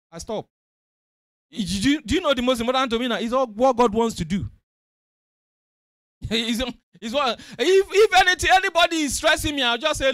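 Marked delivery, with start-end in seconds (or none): 1.5-10.1 shouting, much louder; rising, excited preaching cry. Acted. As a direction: belt it out to the church.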